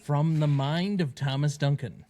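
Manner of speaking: lightly voiced nineties trailer announcer; a hint of epic trailer narrator; movie trailer voice. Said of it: "you're like the nineties trailer guy voice".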